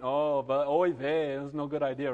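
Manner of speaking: lightly voiced old Jewish man; yiddish accent. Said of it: "And he went".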